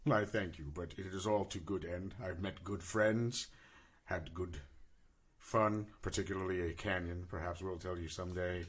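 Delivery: low, measured tale-telling in character; solemn war-orphan adventurer. Acted. Player answers in character.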